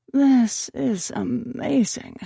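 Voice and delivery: slow mumble through a mouthful; mouth full. Acted. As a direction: talk around a bite of bagel. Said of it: "I mumbled, my mouth full".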